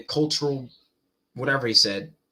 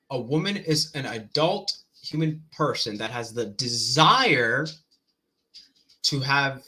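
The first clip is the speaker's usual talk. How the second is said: slow recitation. Retold or imitated. Slowly repeats the fast definition.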